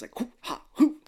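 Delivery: high, airy hoo-ha; imitated exercise noises. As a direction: puff out mock calisthenics sounds. Imitating his calisthenics.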